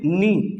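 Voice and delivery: नी begun straight on the N, no K; silent K. Shown as a demonstration. Teacher showing that K is silent, नी starts on N. के silent होता है.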